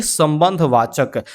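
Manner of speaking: drawn out slowly for students; slow classroom drill; slow drilled answer. Shown as a demonstration. Teacher repeats answer slowly.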